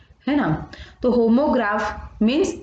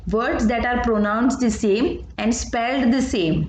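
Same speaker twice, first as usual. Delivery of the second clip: textbook definition read out slowly and evenly; slow dictation; much slower than usual. Acted. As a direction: read the definition so the class can copy it. (धीमी आवाज़ में परिभाषा लिखवाना)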